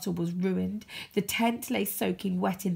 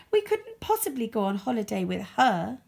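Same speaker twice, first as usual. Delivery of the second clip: snooty poodle; 4 semitones higher, 3 dB louder than usual. Acted. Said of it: "giggling and whispering".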